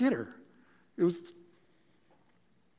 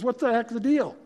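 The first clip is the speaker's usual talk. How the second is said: higher, louder scolding; upset Pharaoh; 5 semitones higher, 6 dB louder than usual. Retold or imitated. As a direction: tell off the knucklehead who lied, pitched up and loud. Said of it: "Pharaoh's totally upset".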